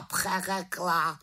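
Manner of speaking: high, slow, drawn-out croaked echo. Acted. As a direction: stretch the word out mockingly. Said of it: "krákal havran".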